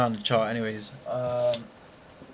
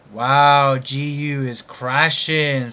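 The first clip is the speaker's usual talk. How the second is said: surprised exclamation; 3 semitones higher, 7 dB louder, much slower than usual. Real, not acted. Watching the market drop.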